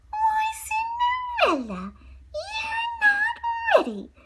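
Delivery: high, slow false sympathy; mock concern. Stepmother mocking Cinderella with high fake concern. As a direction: stepmother feigning surprise. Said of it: "said her stepmother".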